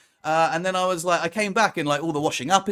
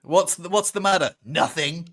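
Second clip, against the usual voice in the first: passive aggressive; 2 semitones higher than usual. Retold or imitated. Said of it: "passive aggressive".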